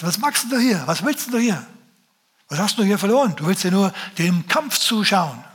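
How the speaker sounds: put-on scolding older brother voice.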